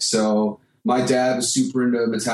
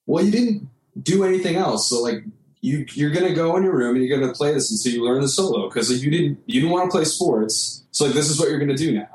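lightly voiced insistent mom, pitched higher; a higher, mildly exasperated parent voice; mom laying down the law; 5 semitones higher than usual. Mom tells the kid to keep practicing, lightly imitated firm voice.

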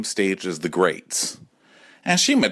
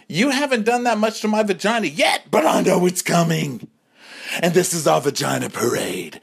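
sassy lecture; 10 semitones higher than usual. Retold or imitated. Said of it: "I said".

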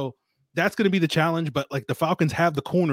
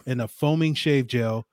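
ad read. Acted. Host reads the Harry's sponsor spot to listeners, as an ad read. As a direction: sell the razors like a host's ad spot.

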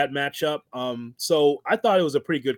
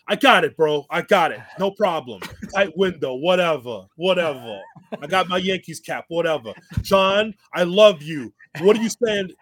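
rambling promo impression; 3 semitones higher than usual. Wrestler waving off the tight time window, lightly imitated. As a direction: brush it off, rambling. Acting out Kingston rambling again.

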